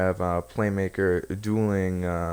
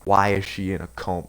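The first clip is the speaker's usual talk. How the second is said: mock angry interrogation. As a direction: demand answers like an accusing brother, mildly. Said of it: "he's torturing him, like".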